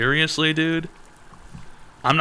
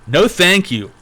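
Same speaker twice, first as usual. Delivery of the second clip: bright, much higher commercial pitch, surprised on Heroin; cheery ad voice; 7 semitones higher, slower than usual. Pretend. Pitching apple pies over heroin in a mock ad, cheery ad voice. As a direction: sell it like a chirpy TV ad actor.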